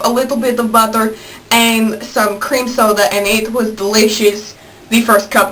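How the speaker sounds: put-on Russian accent. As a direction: tell it with an amateur Russian accent. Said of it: "Russian for the rest of the video".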